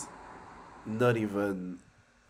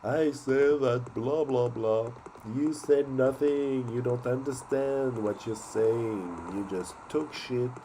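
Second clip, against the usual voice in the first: angry rant; 3 dB louder than usual. Acted. Heated rant at a politician.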